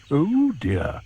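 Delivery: worried hippo. Acted. Humpy Rumpy fearing the crocodile's plans, worried.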